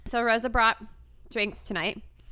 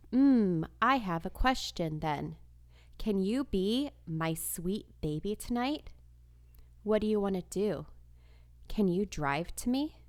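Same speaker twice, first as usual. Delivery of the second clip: reading creepy chat aloud. Pretend. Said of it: "were you the one who wrote".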